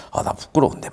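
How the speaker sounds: whispered, shy and flustered; embarrassed whisper. Retold or imitated. A shy boy whispers about his crush seeing his story. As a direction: breathe it out, embarrassed he saw it. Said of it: "막 이러면서".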